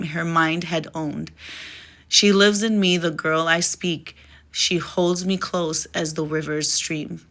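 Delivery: measured, heartfelt poem recital with slow lines; poem reading. Acted. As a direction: read it like a vulnerable confession. Reads her own poem aloud.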